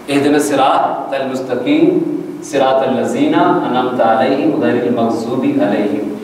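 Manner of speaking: slow recitation, thin t in الصراط; drawn-out verse in untrained Urdu-style الصراط; Pakistani mispronunciation. Shown as a demonstration. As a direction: say الذین with z, المستقیم with k. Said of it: "یہ ہمارا تلفظ ہے".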